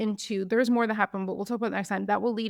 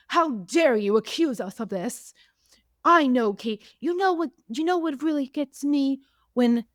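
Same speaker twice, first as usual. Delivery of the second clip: put-on English accent; 4 semitones higher, 3 dB louder than usual. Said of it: "You added a bit of an English accent to that".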